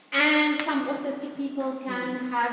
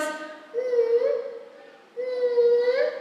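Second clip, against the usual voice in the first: empathetic hum; 11 semitones higher, 4 dB louder than usual. Retold or imitated. Grandson comforting his grandmother, a much higher caring hum. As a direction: hum along in sympathy. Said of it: "you can hear the empathy".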